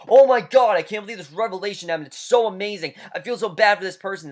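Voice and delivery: high, gushing, hammed-up fangirl; gushing fan page. Mocking the show's Facebook page, gushing high voice. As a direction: overdo the breathless excitement. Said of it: "It's like".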